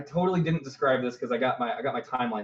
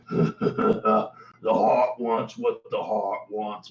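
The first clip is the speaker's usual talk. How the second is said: put-on British accent; 3 semitones lower, much slower than usual. Bugbear answers with British flavour.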